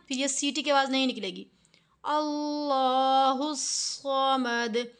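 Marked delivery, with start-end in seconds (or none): 2.0-4.9 slow, drawn-out chanted recitation; slow Quran recitation. Shown as a demonstration. Quran teacher demonstrating a verse, slow chanted recitation. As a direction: recite it slowly, drawing out each vowel. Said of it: "ज़बान हमारी थोड़ी सी घूम कर".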